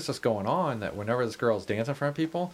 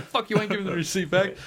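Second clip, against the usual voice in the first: angry bartender; 8 semitones higher, faster than usual. Retold or imitated. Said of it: "the guy's like".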